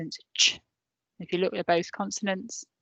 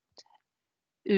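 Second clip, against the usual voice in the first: whisper. Real, not acted. Teacher whispering the cue to her pupils. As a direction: breathe it, barely voiced. Teacher prompting children to repeat.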